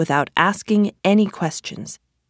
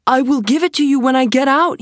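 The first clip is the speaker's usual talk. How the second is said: put-on boy voice; 7 semitones higher, 3 dB louder, faster than usual. A narrator's reading. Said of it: "he said".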